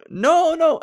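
high, loud mock protest; imitated backtracking. Fellow comic trying to backtrack, mock protest.

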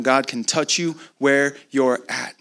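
spaced-out words, "where you're at" drawn out; slow, deliberate repeat. Real, not acted. Preacher having the congregation write it down, slow and deliberate. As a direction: say it slowly for note-takers, pausing before "where". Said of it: "Write that down".

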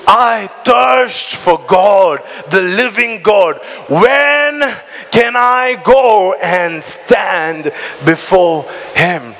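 slow fervent reading. Acted. Reading psalm slowly.

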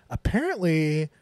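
imitating the pissed-off professor; annoyed professor. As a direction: scold the class in a half-played huff. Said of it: "she's, like, pissed".

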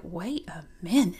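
low mock man's voice; a low, stunned husband noticing his wife; husband's double take. Imagined husband's first double take.

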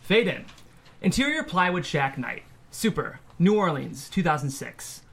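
measured read of the action lines; table-read narrator voice; screenplay narration. Acted. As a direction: set the scene for the listeners, evenly. Host reads screenplay action lines.

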